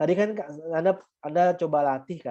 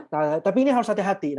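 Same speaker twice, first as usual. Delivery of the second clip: "hati-hati" pressed firmly as a warning; emphatic warning; 4 semitones higher, 4 dB louder, faster than usual. Shown as a demonstration. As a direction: lean into "ini harus hati-hati". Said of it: "ini harus saya, eh, tekankan baik-baik". (tekankan "hati-hati" dengan tegas)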